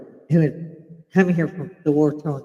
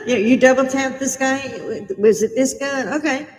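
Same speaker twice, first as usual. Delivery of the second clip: mock cop questions; 10 semitones higher, 4 dB louder than usual. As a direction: ham up the clueless officer. Mocking police questioning killer.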